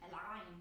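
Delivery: "El Ain" with the throat tightened on Ain; careful Arabic demo of "El Ain"; demonstrated Arabic Ain. Shown as a demonstration. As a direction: squeeze the throat as "Ain" begins. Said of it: "finally able to pronounce Ain".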